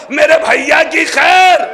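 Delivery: slow, high, loud cry for her brother; anxious cry. Acted. Zainab cries out to Fizza, slow anxious wail. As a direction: call out in dread, drawn out.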